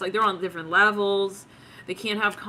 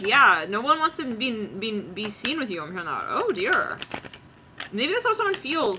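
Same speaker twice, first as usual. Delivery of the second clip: normal talking voice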